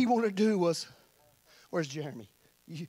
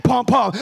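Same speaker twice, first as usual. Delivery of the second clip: loud, pounding double thump; forceful pum-pum pulse; imitated heartbeat; 8 dB louder than usual. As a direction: punch out two heartbeats. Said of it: "hear that heartbeat".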